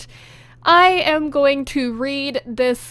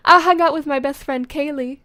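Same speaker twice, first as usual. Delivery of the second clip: a hint of southern US accent; lightly southern-accented narration; slight southern accent; 3 dB louder than usual. Author voicing her teen heroine, slight southern accent. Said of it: "gave her a slight southern accent".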